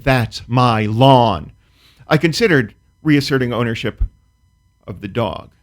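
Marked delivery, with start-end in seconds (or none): 0.0-1.5 mock-angry, slowed right down; drawn-out neighbor's lawn claim, firmer; slower, louder, angrier. A neighbor reclaims his lawn, mock-angry and slow. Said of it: "He got slower and louder and more angry".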